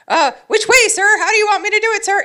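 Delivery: eager soldier-like falsetto; stiff in-character voice. Retold or imitated. Answering the photographer stiffly, in a loud falsetto. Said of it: "standing at attention like a soldier".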